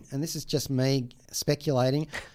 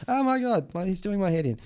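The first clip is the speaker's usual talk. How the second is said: high, exasperated cry of overwhelm; exasperated outburst; 7 semitones higher than usual. Retold or imitated. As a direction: throw up your hands, overwhelmed. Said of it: "It's like".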